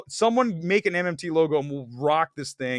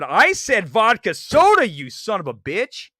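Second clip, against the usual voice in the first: a hint of angry shout at first, then dropping away; mock furious friend throwing a drink; hammed-up retold outburst; mock angry yell; 3 semitones higher, 4 dB louder than usual. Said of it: "and said".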